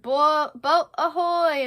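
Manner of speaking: loud, high, drawn-out hail; slow stage pirate's shout; Hook. Acted. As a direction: call out across the water. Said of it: "Hook comes and he's like".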